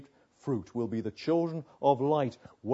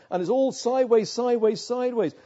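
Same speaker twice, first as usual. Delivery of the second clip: building emphasis; 9 semitones higher, 8 dB louder than usual. Acted. Preacher building to a climax.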